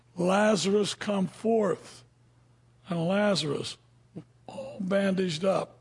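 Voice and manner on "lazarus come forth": normal talking voice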